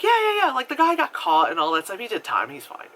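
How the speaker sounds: dismissive. Retold or imitated. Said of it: "that's how she said it".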